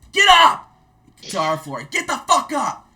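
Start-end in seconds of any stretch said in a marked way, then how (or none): 0.1-0.6 explosive high-pitched yell; drill sergeant shouting. Retold or imitated. Drill sergeant arriving on the soldiers' floor, shouting. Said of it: "he comes up and he says". 1.8-2.9 high, drawn-out barked yell; drill sergeant shouting. Retold or imitated. Drill sergeant rousting the upstairs platoon, shouting.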